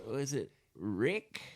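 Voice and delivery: goofy falsetto; high silly voice. Acted. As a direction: pretend not to remember. Joking about forgetting name.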